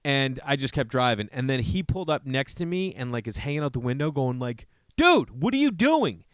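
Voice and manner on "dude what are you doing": high, slow, mocking yell of a road-rage driver; mock angry driver. Driver yelling from his window in mock outrage. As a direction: imitate the irate guy hanging out the window.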